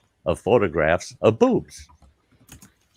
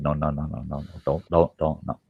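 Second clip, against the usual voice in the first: subtle no; 5 semitones lower, 5 dB quieter, faster than usual. Retold or imitated. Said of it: "as subtly as possible, shaking my head".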